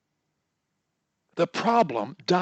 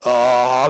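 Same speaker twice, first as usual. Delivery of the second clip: hummed lead-in; 3 semitones lower, 11 dB louder than usual. Shown as a demonstration. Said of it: "hum your way into that word".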